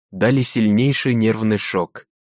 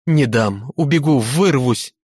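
terrified babbling; 3 semitones higher than usual. Acted. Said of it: "лепетал в ужасе".

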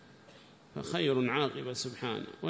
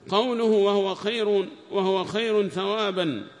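raised, measured text-reading voice; reading aloud; 4 semitones higher, 4 dB louder than usual. Acted. Student reads the tafsir text to the teacher in a raised reading voice. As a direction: read the commentary out to the class.

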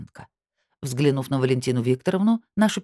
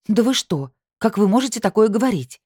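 pitched up and louder in outrage; indignant outburst; 7 semitones higher, 4 dB louder than usual. A narrator's reading. Анна Андреевна protests being accused, indignant and loud. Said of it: "возмутилась она".

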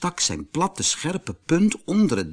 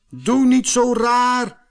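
high, loud and slow cross retort; angry little man; 12 semitones higher, 5 dB louder, slower than usual. A narrator's reading. Little man scolding the lion, high cross shout. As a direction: snap back indignantly. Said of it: "riep het mannetje boos".

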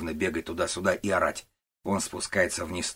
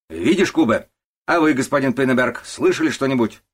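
loud, higher, bullying denial; loud blustering boss; 7 semitones higher, 9 dB louder than usual. Acted. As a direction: drown the old man out. Начальник давит на служащих. (громкий напористый начальник отпирается)

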